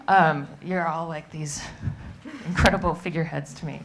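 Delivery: nervous, shaky voice. Real, not acted. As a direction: voice trembling with nerves. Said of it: "forgive my shaky voice".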